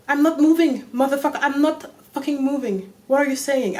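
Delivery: furious. Real, not acted. Outraged at the nurse who blamed her. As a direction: snap back in frustration.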